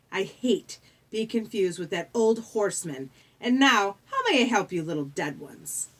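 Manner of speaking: lightly voiced British underworld doorman; smooth British ferryman. The ferryman receives the little dead ones, smoothly condescending.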